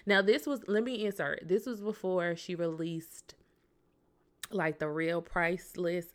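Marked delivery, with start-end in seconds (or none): 1.5-6.1 a whispered side note dropped into the story; whispered aside. Real, not acted. Host whispering an aside to viewers mid-story. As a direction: breathe it as a quick aside.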